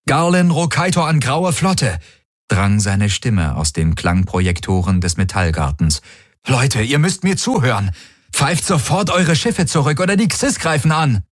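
high, pressing warning to the fleet; urgent envoy. A narrator's reading. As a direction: plead urgently over the comm, pitched high. (eindringliche, hohe Warnung an die Flotte)

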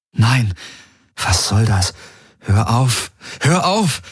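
high protest that rises; Ylana protesting. A narrator's reading. Ylana protests as Garland leans in to kiss her. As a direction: push him away with your voice.

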